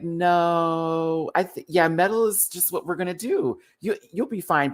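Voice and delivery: breezy brush-off, mock confident; imitating Mistress. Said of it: "It's the way Mistress is like".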